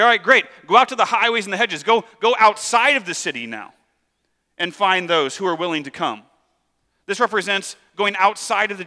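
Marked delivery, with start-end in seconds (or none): 0.0-6.2 eager master. Retold or imitated. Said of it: "He's like".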